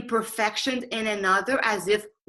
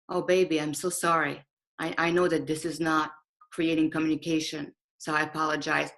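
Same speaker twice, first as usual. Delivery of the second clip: tender apology; 5 semitones lower than usual. Shown as a demonstration. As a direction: apologize gently to someone you love. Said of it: "Being authentic is saying".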